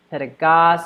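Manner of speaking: "Pedagogue" cut off after a hard G syllable. Shown as a demonstration. Teacher isolating the first G, hard G in "Pedagogue". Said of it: "that's the first hard G".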